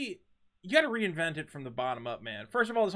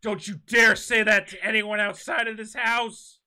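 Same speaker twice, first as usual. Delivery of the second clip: hissed parental threat; 3 semitones higher, 7 dB louder than usual. Acted. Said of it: "You're gonna be".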